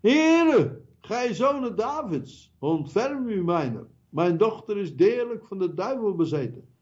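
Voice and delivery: high pleading cry of a desperate mother; lightly voiced pleading woman. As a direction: beg the Lord with a high cry. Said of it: "riep tot hem".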